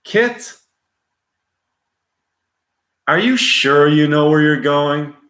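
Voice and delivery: worried hero asking his car; Michael Knight. Acted. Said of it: "David Hasselhoff playing Michael Knight".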